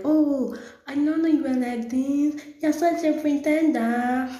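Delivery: mocking accuser. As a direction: mimic a judging acquaintance. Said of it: "they'll be like".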